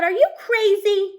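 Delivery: loud, slow, outraged shout at the reckless driver. Acted. Teacher shouting at the student driver, loud and slow. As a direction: yell it at the kid who nearly hit you. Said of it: "I shout".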